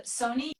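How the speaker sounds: Sunny pronounced like Sony; French-accented name. Shown as a demonstration. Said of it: "That's how you say".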